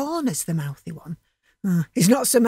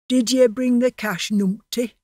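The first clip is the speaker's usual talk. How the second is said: louder demanding bully; menacing thug; 3 semitones higher, 4 dB louder than usual. Acted. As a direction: press him for the money.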